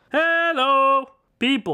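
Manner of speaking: projecting to the room, very high and loud. Testing a microphone in the living room, projecting voice. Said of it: "I'm projecting a little more".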